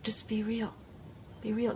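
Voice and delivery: soft breathy whisper, pleading; hushed, sincere whisper; whispered plea. Real, not acted. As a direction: breathe it out like a confession. Repeating the plea, now whispered.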